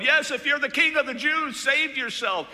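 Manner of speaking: high, loud taunt; high, loud jeering soldiers; mocking yell. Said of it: "they yelled".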